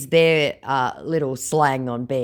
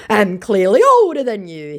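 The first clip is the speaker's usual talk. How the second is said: scammer voice; 8 semitones higher, 8 dB louder than usual. Retold or imitated. Scammer's boast read aloud.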